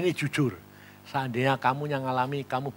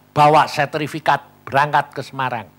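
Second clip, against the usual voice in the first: firm command; 6 dB louder than usual. Retold or imitated. God's command retold.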